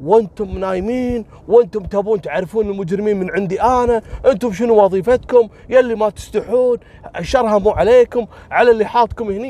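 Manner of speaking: high, furious, mock angry yelling. Retelling how the boy who made the report yelled at the investigator, retelling an angry, insulting shout. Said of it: "يقوم يصرخ علي ويغلط".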